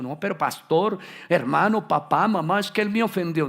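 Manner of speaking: loud, aggrieved complaining believer; whiny complaint. Retold or imitated. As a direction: protest like someone demanding their rights. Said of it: "algunos quieren imponer sus derechos". (queja ruidosa de creyente ofendido)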